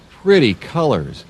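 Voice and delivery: normal talking voice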